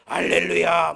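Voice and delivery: loud preacher's shout of 할렐루야; shouted hallelujah. Retold or imitated. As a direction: belt 할렐루야 like a revival preacher. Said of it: "막 이럴 때요". (부흥사처럼 외치는 할렐루야)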